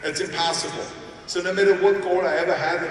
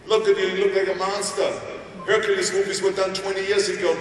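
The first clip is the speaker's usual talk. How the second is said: mock agent; 5 semitones higher than usual. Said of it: "They said to me".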